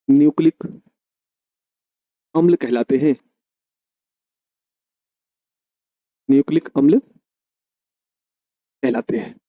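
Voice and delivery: spelled out slowly, word by word; slow dictation. Shown as a demonstration. Teacher dictating the definition slowly to students. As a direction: dictate it slowly so they can write. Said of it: "ऐसा लिख लो".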